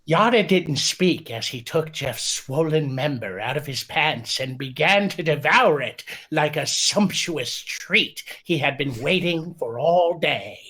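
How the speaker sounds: mock passion read in a lightly put-on voice; Poe voice. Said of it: "Read in the voice of Poe".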